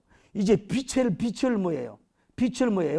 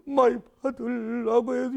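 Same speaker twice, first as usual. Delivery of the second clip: mock crying; 4 semitones higher than usual. Children crying over their dead father, acted wailing. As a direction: draw it out tearfully, pitch raised. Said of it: "이래주고 울고 있다가".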